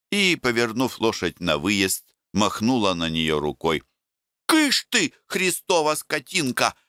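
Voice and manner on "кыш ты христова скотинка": shooing a horse. Acted. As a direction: shoo the horse off like a village woman. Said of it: "По бабьи понукала она лошадь".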